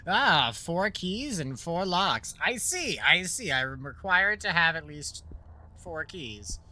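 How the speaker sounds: slow, deliberate musing hero; hammed-up hero. Hero mulling over the note, slow and theatrical. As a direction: savor the realization. Hero voice, adding his own line.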